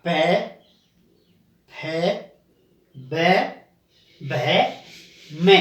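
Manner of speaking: प फ ब भ म said with the lips pressed together, long pauses between; lip letters demo. Shown as a demonstration. Teacher showing students the lip letters. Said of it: "जैसे आप इसको देख सकते हैं".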